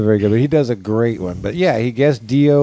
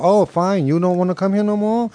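high mock Asian lady dentist; huffy question in a put-on Asian accent; 8 semitones higher than usual. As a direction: imitate an offended Asian dentist, pitched up. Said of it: "And the lady's like".

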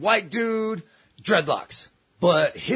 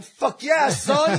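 high, elated acceptance; acted-out gleeful agreement; retold eager yes; 8 semitones higher, much slower than usual. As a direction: jump at the offer, pitched up. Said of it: "And I was like".

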